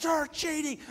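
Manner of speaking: put-on high, angry Irish-accented accusation; mock Irish accent. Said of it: "he's got the accent".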